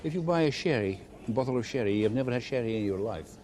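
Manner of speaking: lightly joking, pitch lifting at the ends; joking sales pitch. Retold or imitated. Retailer jokingly reassuring customers about an unfamiliar sherry, lightly joking. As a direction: make the old promise with a light joke. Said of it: "jokingly perhaps".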